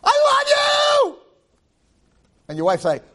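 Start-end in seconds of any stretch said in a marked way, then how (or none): 0.0-1.2 high, drawn-out cry of love to God; stretched-out joyful shout; loving shout. Retold or imitated. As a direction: call it out slowly with all your heart. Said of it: "sit at the Ezra Abba and say".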